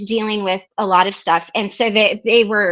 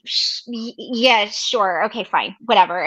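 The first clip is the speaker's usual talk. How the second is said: fake reluctance. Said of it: "I was like".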